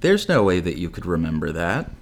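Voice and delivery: deadpan mom imitation; mock-serious, emotionless line reading. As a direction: deliver it evenly, with no alarm. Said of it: "just dead serious".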